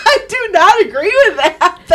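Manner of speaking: real high-pitched, laughing protest; laughing disagreement. Real, not acted. Laughing protest at co-host's gushing.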